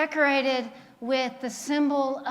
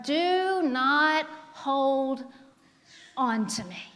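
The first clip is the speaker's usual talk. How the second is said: slow emphasis; slower than usual. Shown as a demonstration. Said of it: "Do you hear that, church?".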